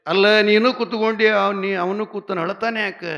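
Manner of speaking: high, loud exasperated question; frustrated outburst. Retold or imitated. Husband loudly asking his wife why the boy still cries. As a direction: stumble over words in frustration.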